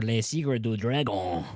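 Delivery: title read in a French accent. Shown as a demonstration. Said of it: "How's my French accent?".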